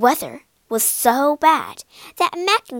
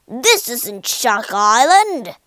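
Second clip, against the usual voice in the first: slow, louder angry pirate; growling; 5 dB louder, slower than usual. Acted. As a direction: growl it slow like a furious captain. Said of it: "growled Spike".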